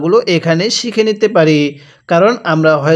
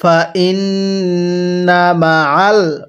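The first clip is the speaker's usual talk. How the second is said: stretched syllables, measured Arabic reading; slow recitation; slower than usual. Shown as a demonstration. Teacher models the word slowly for learners to copy. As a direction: draw out ওয়া র ফা না evenly. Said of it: "আরেকবার পড়বেন।".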